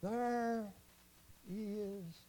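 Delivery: hushed, word-by-word pronouncement; solemn warning. Real, not acted. Preacher warning the folks there is a hell, hushed and solemn. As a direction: drop soft and leave long pauses between words.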